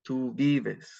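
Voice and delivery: Tú vives with stress on "vi"; second-last syllable stressed. Shown as a demonstration. Teacher demonstrating accentuation, stressing the "vi" of vives. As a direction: lean on the first syllable of vives. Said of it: "it's on the second to last syllable".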